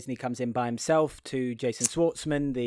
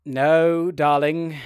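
boss; 6 dB louder, much slower than usual. Acted. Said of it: "And then the boss goes".

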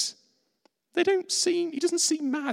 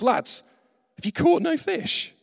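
calling out; 10 semitones higher than usual. Retold or imitated. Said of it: "more literally from the Greek".

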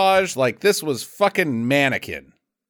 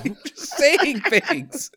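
giggling through the words; laughing; 10 semitones higher, much slower than usual. Real, not acted. Laughing at his friend's nonsense, laughing. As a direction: laugh while saying it.

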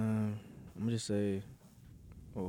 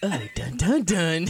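dramatic suspense sting; 4 semitones higher, 10 dB louder, much slower than usual. Acted.

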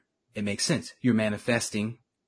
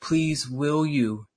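slow, hesitant asking; timid pleading; 3 semitones higher, much slower than usual. Retold or imitated. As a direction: ask meekly and slowly. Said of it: "it wasn't like".

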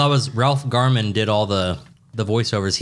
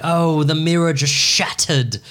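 slow, lightly hammed-up singer impression; drawn-out mock dismay; 3 semitones higher than usual. Sister retells the mirror breaking, slow mock dismay. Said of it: "She's like".

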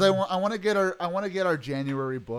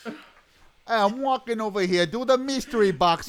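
higher-pitched mock street-tough impression; imitating his friend; 5 semitones higher, 3 dB louder than usual. Mimicking a friend demanding the mystery box, teasing impression. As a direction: caricature him, calling out indignantly. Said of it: "It's more like".

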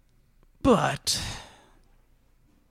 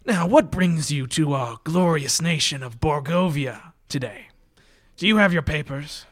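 officious officer; 3 semitones higher, 6 dB louder than usual. Acted. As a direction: bark out the checkpoint questions. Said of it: "he takes out a little pen".

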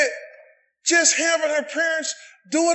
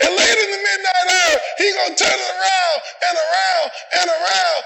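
full-force preaching; 2 semitones higher than usual. Real, not acted. Preacher to congregation, rousing preaching. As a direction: drive the refrain home to the pews.

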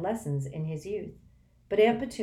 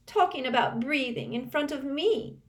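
piercing voice; 10 semitones higher than usual. Acted. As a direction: pitch it up into a shrill wail. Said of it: "she said shrilly".

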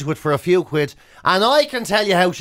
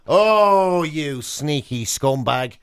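mock scorn; 4 semitones lower, much slower than usual. Mock denouncing the photographer again.

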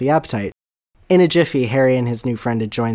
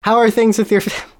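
put-on southern accent; 9 semitones higher, 5 dB louder than usual. Reverend's line, southern.

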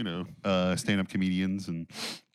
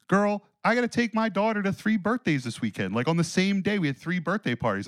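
incredulous venting; 8 semitones higher than usual. Retold or imitated. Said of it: "I'm like".

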